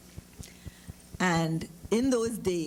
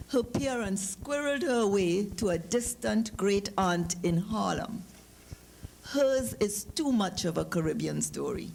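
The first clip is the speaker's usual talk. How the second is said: story narration. A narrator's reading. Author reading her story to the audience, storytelling voice. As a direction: read the story to the audience, evenly paced.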